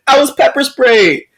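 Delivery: high, drawn-out mock wail; whiny play-crying, slow and high. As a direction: imitate a distraught crying woman. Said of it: "she's crying".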